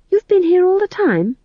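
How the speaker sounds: high startled squeak. Acted. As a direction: jump out of your skin. Magrat startled by Granny.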